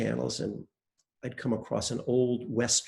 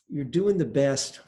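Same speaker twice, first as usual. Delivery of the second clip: slower, resigned "You're doing the best"; bad-news version; 2 semitones higher, slower than usual. Shown as a demonstration. Teacher shows students the bad-news way, resigned. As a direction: say it as grim bad news, dragging it out. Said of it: "I've got good news and bad news".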